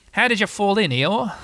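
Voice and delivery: high-pitched inquiring character voice; lifted, enquiring animal voice; questioning Rabbit. A narrator's reading. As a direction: ask it brightly as Rabbit. Rabbit questions soaked Eeyore in story.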